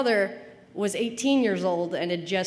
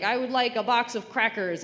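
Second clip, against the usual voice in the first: lightly acted polite request, pitched up; a neat, higher-pitched request; what dad means; 4 semitones higher than usual. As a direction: say it as the sentence he intends. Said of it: "when he's trying to say".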